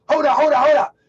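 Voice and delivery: high, loud, slow shouted welcome; excited shout. Real, not acted. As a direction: hail her arrival at full voice. Hyped greeting to a viewer arriving.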